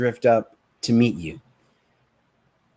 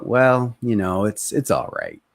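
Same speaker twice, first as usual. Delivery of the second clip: low-energy reply; 3 semitones lower than usual. Shown as a demonstration. Prospect's low energy reply demo.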